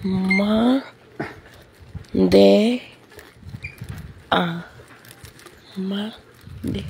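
"Ma, de, a, ma, de" broken into separate syllables; over enunciating. Real, not acted. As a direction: read "Ma, de, a, ma, de" one syllable at a time. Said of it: "estás nomás leyendo las letras".

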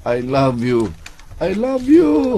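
lovestruck Narcissus. Acted. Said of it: "si Narcissus naman".

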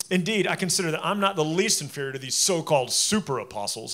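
mild sarcasm, leaning on "so-called super apostles"; sarcastic reading. Shown as a demonstration. Preacher showing the church how Paul mocks his rivals, dryly sarcastic. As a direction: let "so-called" drip with light scorn. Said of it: "Here's kind of how you should read that".

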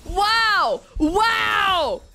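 high, loud wows; amazed shout. Real, not acted. Gamer amazed by a teammate's move, excited shout. Amazed at long-awaited weakness.

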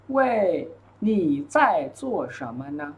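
word by word, with small gaps; slow model reading. Shown as a demonstration. Teacher modelling a dialogue line for students, slowly. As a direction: stretch each syllable for learners.

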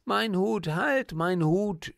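put-on a child's panicked shout, drawn out slowly; frightened scream. Little girl sees her hat blown away and cries out in fright. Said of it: "schrie die Kleine erschreckt".

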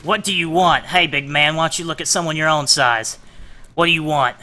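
defiant. Acted. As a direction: stand up to the captor. Defiant hostage roleplay.

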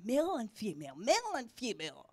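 "male and female" repeated with swooping stress; emphatic repetition. Retold or imitated. Preacher imitates the Lord's emphasis, stressed "male and female". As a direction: say "male and female" twice, pitch swinging on the words. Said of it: "He kept emphasizing".

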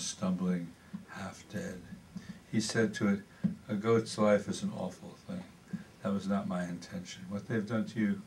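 measured prose-poem reading with deliberate pauses. Acted. Poet reading Scapegoat to an audience, measured recital. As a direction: recite it sentence by sentence, letting endings drop.

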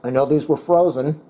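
talking with a mouth full. Real, not acted. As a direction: speak through a mouthful of food. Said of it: "Sorry, I'm speaking with my mouth full".

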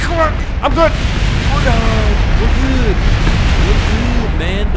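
high, loud, frantic self-reassurance; strained high shout; panicked insistence. Real, not acted. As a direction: yell it as if convincing yourself. Insists he's fine amid the crash.

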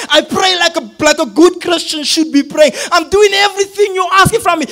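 mounting frustrated complaint, acted out; upset with God. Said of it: "I'm getting upset".

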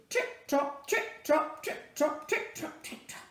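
trot eagerly then trail off; lively clip-clop growing faint; quick hoofbeats. Acted. Donkey energised again.

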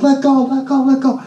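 high yelled commands to break up a fight; retold shout. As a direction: bark at the girls to let go.

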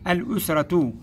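الأسرة with an audible AL at the start; moon lām. Shown as a demonstration. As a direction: sound the L clearly in الأسرة. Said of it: "كلمة بها لام قمرية".

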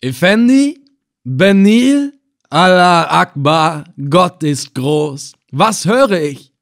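loud, high, drawn-out exclamations; astonished call. A narrator's reading. Slave hunter leaping over at the names, loudly astonished. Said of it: "herbeigesprungen und rief".

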